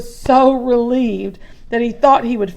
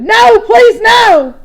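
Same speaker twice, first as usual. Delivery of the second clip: high, loud, begging cry; pleading shout; 12 semitones higher, 10 dB louder, slower than usual. Acted. Boy begs the bear to leave, shouting. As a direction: plead with all your breath. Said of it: "Louis shouted".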